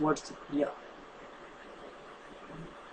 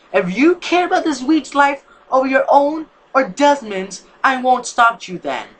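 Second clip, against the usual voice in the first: much higher, louder, slow furious outburst; angry; 9 semitones higher, 9 dB louder than usual. Acted. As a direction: throw it at her in anger. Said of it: "said in anger".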